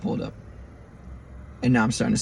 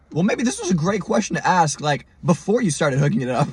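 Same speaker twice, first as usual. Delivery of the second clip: raised, exasperated sarcasm; mock-reasonable complaint, pitched up at first; retold sarcastic indignation; 4 semitones higher than usual. Driver to tow guy already hooking up, sarcastic. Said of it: "I'm not talking like this".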